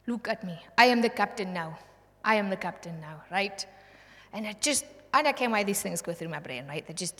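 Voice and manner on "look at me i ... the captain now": loud threatening pirate taking over the ship; a pirate seizing command, loud and threatening; menacing pirate. Retold or imitated. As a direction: bark it at the captain's face. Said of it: "the pirate comes onto the ship".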